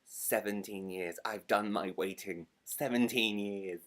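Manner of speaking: each "Seventeen years" slow and weighty; slow, deliberate stress on "Seventeen years"; emphatic. Real, not acted. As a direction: hammer home "Seventeen years", drawing it out. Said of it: "I'm stressing this again".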